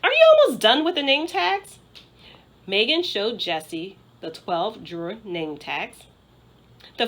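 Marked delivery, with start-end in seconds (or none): 0.0-1.8 higher, louder urgent ask; impatient, pushing voice; eager question. Acted. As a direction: press her friend to hurry. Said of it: "she said".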